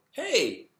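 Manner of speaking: loud, high-pitched call-out; confronting someone without being nasty; not mean, not nice. Retold or imitated. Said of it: "not like a mean way to say it, but not a nice way either".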